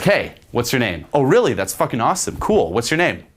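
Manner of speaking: upbeat, fun-loving question; playful fun. Shown as a demonstration. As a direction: sound amused and easy. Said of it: "there's some fun behind it".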